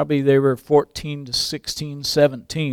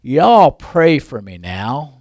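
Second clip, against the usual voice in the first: put-on southern accent; much slower than usual. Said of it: "a charming southern accent".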